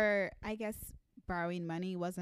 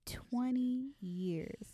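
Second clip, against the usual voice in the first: incredulous; 4 semitones higher, much slower than usual. Real, not acted. Incredulous slow repeat.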